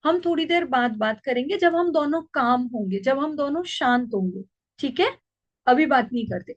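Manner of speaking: put-on calm an angry child tenderly; lovingly. Shown as a demonstration. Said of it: "प्यार से बोलिए". (गुस्साए बच्चे से माँ का प्यार भरा, शांत स्वर)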